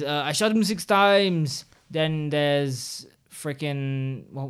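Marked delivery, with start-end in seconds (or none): 0.2-1.6 slow, slightly higher quote; quoting a movie line. Retold or imitated. Listing top five horror quotes for her friend, slow and dramatic. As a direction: savor the line like a horror fan. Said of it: "there is".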